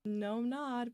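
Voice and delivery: imitated London vowels, stretched out; thick London accent. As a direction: put on a slow London accent. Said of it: "thick London accent. You would think I'm, like, from Hackney".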